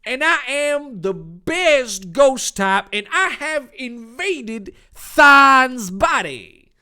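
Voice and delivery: loud and high, a different voice for the monster. Acted. Monster telling Dave who it is, loud and high. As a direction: announce yourself like a ghost monster. The monster boasts about the possession.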